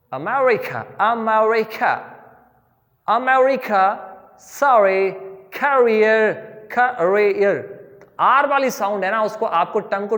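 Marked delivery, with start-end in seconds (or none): 0.1-4.1 अमेरिका with an American r, drawn out at the end; American accent. Shown as a demonstration. Teacher modelling American r for students. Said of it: "proper बोलूंगा मैं आर को". 4.4-7.6 sorry and career with a curled American r; American accent. Shown as a demonstration. Teacher modelling American r for students. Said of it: "proper बोलूंगा मैं आर को".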